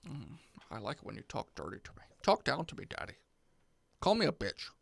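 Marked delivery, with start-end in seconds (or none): 0.1-3.1 mock seductive.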